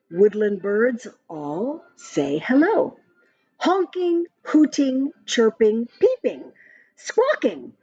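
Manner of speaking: lively sing-song rhyme reading; reading to children. Acted. Parent reading a rhyming story app to a child, sing-song. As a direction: read the verse brightly to a little one. Reads bird verse aloud.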